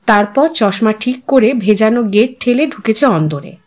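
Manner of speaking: ordinary delivery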